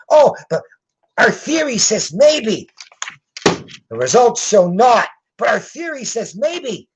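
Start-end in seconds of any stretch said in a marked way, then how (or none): 0.1-2.7 mocking quote. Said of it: "now these guys are saying". 5.4-6.9 high-pitched mimicry of a weak excuse; mocking quote. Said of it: "now these guys are saying".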